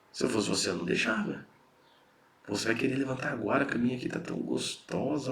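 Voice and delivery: like a devil on the shoulder, lightly done; tempting inner voice. Retold or imitated. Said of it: "Ele fala".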